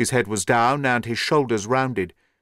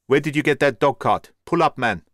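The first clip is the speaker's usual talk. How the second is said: yelled; 3 semitones higher, 4 dB louder than usual. A narrator's reading. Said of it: "he yelled".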